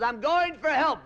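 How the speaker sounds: deadpan it like a calm pilot; pilot leaving. Acted. Pilot bails out on parachute.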